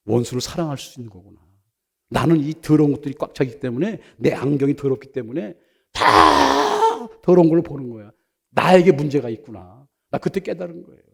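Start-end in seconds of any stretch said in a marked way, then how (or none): 2.1-9.9 tearful. Real, not acted. Tearful confession.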